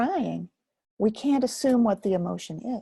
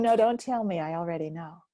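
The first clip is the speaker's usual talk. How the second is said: mock know-it-all; 2 semitones lower than usual. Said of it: "how about if I said to you".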